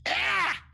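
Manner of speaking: high-pitched goblin shriek; goblin scream. Acted. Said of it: "It lets out a big scream".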